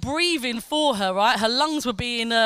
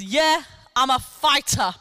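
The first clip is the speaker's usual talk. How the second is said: a slow, lightly voiced steely retort; a hint of a proud patient's tough answer; steely boast. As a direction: say it flatly, sure of yourself. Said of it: "Like that, like, with steely eyes".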